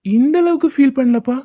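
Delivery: mock awe. Mocking the lovers' scene.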